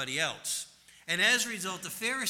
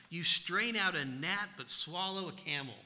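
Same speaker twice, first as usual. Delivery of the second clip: scathing scripture reading. Acted. Preacher reading Jesus' woes to the Pharisees, forceful and declaiming. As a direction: thunder the woes at the hypocrites.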